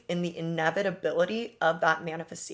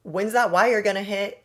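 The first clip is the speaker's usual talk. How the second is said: pushy mock nag about the money, the second line louder; impatient demand; 3 semitones higher, 5 dB louder than usual. Impatient friend blowing up her phone, mock nagging. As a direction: imitate someone hounding you about a payment. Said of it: "blowing up my phone being like".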